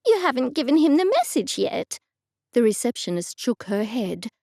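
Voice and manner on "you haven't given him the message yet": higher, surprised question; a touch of disbelief in the question; taken aback. A narrator's reading. Agnes questioning the receptionist, mildly taken aback. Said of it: "visibly taken aback".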